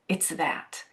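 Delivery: soft, unvoiced whisper. Real, not acted. Host sealing her point to viewers in a whisper. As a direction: drop to a hush to land the point. Hushed summing-up.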